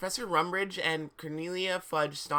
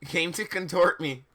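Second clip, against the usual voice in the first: laughing. Real, not acted. Laughing at typo.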